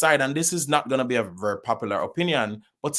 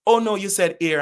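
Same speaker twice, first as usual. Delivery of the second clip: higher-pitched mock of friends' objection; American friends correcting; 9 semitones higher, 4 dB louder than usual. American friends correct the Jamaican actor's word, mock correcting. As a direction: imitate friends insisting, pitched up. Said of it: "And them say".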